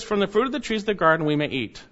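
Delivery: quick, offhand recital; matter-of-fact. Shown as a demonstration. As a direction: toss it off quickly as mere fact. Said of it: "It's almost a matter of fact".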